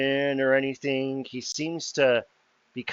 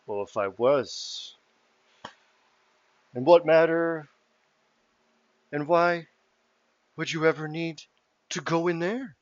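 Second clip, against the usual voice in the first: higher, louder suspicious questioning voice; probing fey host; 5 semitones higher, 5 dB louder than usual. Acted. Mister Light quizzing the party at the gate, suspicious and loud. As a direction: fish for who they are, loud and high. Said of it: "readjusts his outfit and goes".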